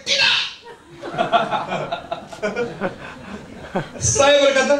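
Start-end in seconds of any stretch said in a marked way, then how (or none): 0.0-0.4 very high-pitched put-on woman's "no"; comic high yelp of refusal; mock refusal. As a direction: imitate an instant, squeaky refusal. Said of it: "dia langsung kayak".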